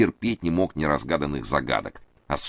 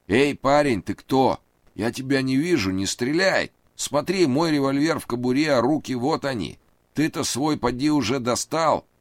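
high, anxious pleading man; nervous high voice; 10 semitones higher, 3 dB louder than usual. A narrator's reading. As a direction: raise the pitch, plead nervously. Reid voiced, frightened.

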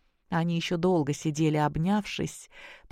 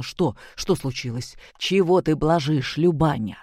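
frightened; 3 dB louder than usual. Acted. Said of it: "спросил испуганно".

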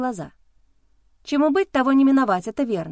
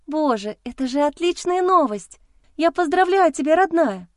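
higher, louder joyful congratulations; touched and delighted; 7 semitones higher, 4 dB louder than usual. A narrator's reading. Friend congratulates Rita on her pregnancy. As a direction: gush with happy emotion. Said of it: "Растрогалась та".

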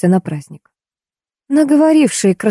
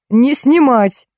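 higher, sharp angry outburst; furious shout; 6 semitones higher, much slower than usual. A narrator's reading. Yuliy shouting at the photographer, angry and high. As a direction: stamp and shout the ban. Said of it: "затопал ногами Юлий".

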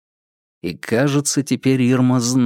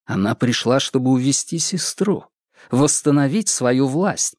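ordinary delivery, nothing marked

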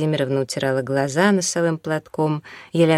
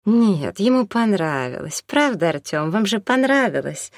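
higher, eager, pleading babble; 4 semitones higher than usual. Acted. Наталья Владимировна begging Артём to praise her food, eager babble. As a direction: chatter on hopefully, seeking his agreement. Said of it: "залепетала воодушевлённая".

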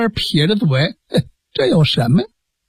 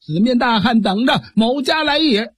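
mildly raised boastful challenge, higher at the end; loud challenge; 3 semitones higher than usual. Acted. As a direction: call out to the giant like a brash bandit. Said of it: "大声叫喊".

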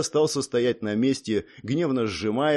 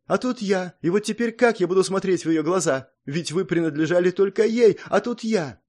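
guilty lament; 7 semitones higher than usual. Acted.

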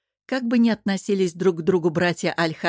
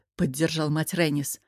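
usual speaking voice

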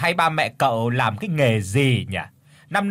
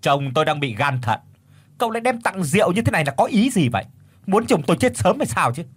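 indignant scolding; 6 semitones higher, faster than usual. Acted. Mother berates suitor over wine.

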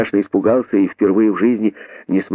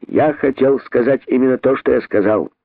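haughty; 4 semitones higher than usual. Acted. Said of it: "надменно ответил он".

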